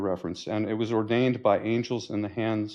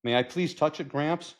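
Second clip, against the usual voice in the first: put-on higher-pitched, eager child; keen granddaughter; 7 semitones higher than usual. Granddaughter begging to touch the car, keen child. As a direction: ask keenly as the grandchild.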